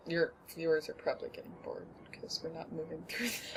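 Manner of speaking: hushed whisper to the audience; whispered aside. Real, not acted. Telling her friend the viewers are bored, whispered. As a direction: whisper it so only the viewers hear. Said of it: "aside to viewers".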